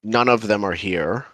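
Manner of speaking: lightly acted, measured reply to a spirit; halting, formal in-character answer. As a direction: address the spirit deliberately, with long pauses. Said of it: "he'll say".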